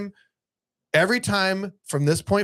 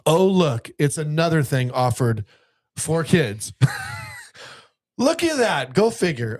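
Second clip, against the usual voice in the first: feigned amazement, pitched up on the punchline; pointed, sarcastic "well, would you look"; sarcastic mock surprise; 2 semitones higher, slower than usual. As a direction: act astonished to prove the complainers wrong. Mock surprise at another kids' event.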